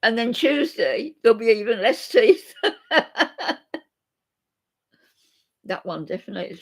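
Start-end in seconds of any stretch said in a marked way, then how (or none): 0.0-2.5 talking through laughter. Real, not acted. Joking about losing teeth. 2.6-3.8 short high laugh; high giggle. Real, not acted. Laughter continues.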